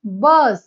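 बस with the U sounded as अ; short "uh" vowel. Shown as a demonstration. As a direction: say बस clearly, vowel as in "uh", not "you". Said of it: "पहा, नीट ऐका".

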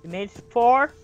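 soft, low murmur to oneself; quiet self pep talk. Real, not acted. Player quietly calming himself during the night. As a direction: talk yourself down softly. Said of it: "self pep talk".

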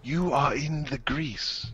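soft, subdued delivery; quiet repeat. Acted. Same phrase repeated softly.

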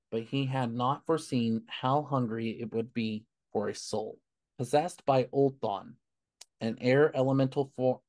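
deliberate, emphatic comic-book origin read; measured narrator delivery with punched phrases; story narration. A narrator's reading. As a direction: read it out like a dramatic backstory. Reads origin story aloud.

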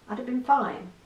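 ordinary delivery

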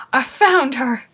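lightly exclaimed imitation of a guard; mock announcing. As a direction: imitate someone announcing a find. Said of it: "You're just saying".

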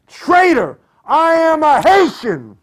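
high-pitched screamed accusation; bellowed accusation. A narrator's reading. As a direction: bellow it at her, voice pitched right up. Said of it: "bellowing at her".

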